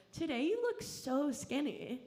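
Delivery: imitating mom. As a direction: stretch it like a loaded compliment. Mom's subtle backhanded compliment.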